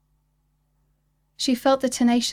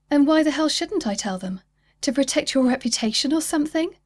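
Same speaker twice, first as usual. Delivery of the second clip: higher, louder indignant woman; defiant anger; 5 semitones higher, 3 dB louder than usual. Acted. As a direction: throw it back at him. Kizzy defies him angrily.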